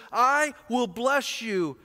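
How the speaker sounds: slow, heavy I will bless you; drawn-out weighted I will bless you; emphasis on bless. Shown as a demonstration. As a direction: press every word of I will bless you. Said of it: "And the emphasis".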